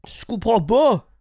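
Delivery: Jeff Tuche impression. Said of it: "tu l'as vraiment bien".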